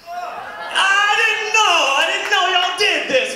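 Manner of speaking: put-on high, slow, innocent girlish whine; mock girl voice. Comic doing the girl's high innocent voice. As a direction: play the caught girl, all innocence. Woman caught, acted high squeal.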